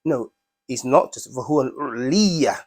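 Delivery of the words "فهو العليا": العليا said with added emphasis; stress on العليا. Shown as a demonstration. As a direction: put more oomph into العليا. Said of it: "now we get a bit more emphasis".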